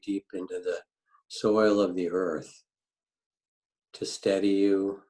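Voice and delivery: unhurried grounding meditation with long pauses; calm meditation teacher, phrase by phrase; guided meditation. Real, not acted. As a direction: guide listeners gently into the body, leaving space between phrases.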